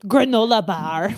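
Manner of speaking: low-pitched mock French accent; playful French-like pronunciation. Shown as a demonstration. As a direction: make it sound fancy and French. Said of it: "when you say it all French-like".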